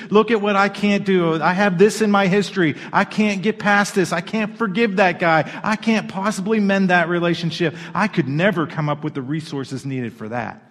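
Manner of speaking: excuse-making. Retold or imitated. Believer lists excuses to God, mild mock whine. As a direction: rattle off the excuses. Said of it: "we start to give all the excuses".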